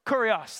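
Kurios said slowly as KOO-ree-os, stress on the first syllable; Greek word said aloud. Shown as a demonstration. Pastor models the Greek word for the congregation, stress on the first syllable. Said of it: "Can you say kurios?".

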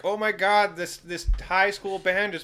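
gushing fan. Retold or imitated. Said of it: "it's like".

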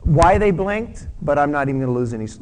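breezy shrugging prayer to the Lord; casual prayer. Retold or imitated. Believer brushing off an offense, talking to God, breezy. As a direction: let it go lightly, half to yourself. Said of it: "Some of it you just say".

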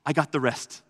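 cheerfully waving off the son's worries; joyful father. Retold or imitated. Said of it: "And he's like".

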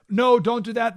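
high, loud mock fearful protest; fearful advisors. Advisors objecting to invading Persia, mock fearful. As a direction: imitate the scared advisors objecting. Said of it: "They were fearful".

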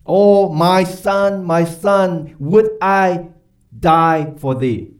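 a slow, drawn-out lament of a grieving king, lightly voiced. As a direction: stretch out Oh, my son as the mourning father. King David mourning Absalom.

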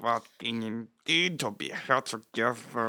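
trying out a German accent. Shown as a demonstration. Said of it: "how to do a German ac".

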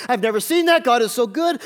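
acted congregational excitement; amazed praise. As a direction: gush like a thrilled worshipper.

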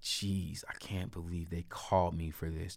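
a mild mock of the cop's sarcastic, put-upon tone; understated sarcastic grumble. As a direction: quietly imitate an annoyed cop. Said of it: "sarcastic, like ... tone".

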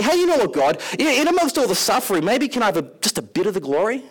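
high, wheedling plea for glory; a coaxing, hopeful request; tempted Paul. Retold or imitated. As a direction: ask God sheepishly for a little glory. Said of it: "temptation just to say".

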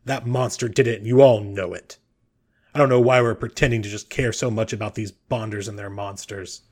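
lightly voiced cranky old man; mild grumbling accusation across the room. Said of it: "the old man who just shouted crankily".

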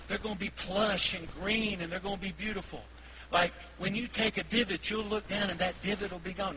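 lightly imitated South Carolina grandmother; South Carolina accent. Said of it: "trying to do my best South Carolina accent".

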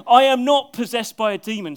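loud denial with a laugh in it; amused repeat of the denial; laughing retake. Acted. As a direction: say it again, chuckling at the line. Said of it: "That's a good way to answer".

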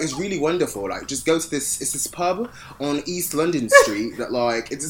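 put-on a faint, half-hearted British accent. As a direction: fake Londoner giving tips. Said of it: "my accent's out bad".

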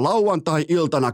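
ordinary talk, nothing marked

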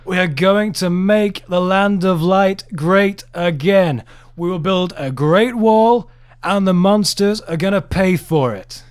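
hammed-up Trump boasting, slow; Trump impression. Co-host imitating Trump boasting about a wall, hammy and slow. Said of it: "I can't do a Donald Trump impression".

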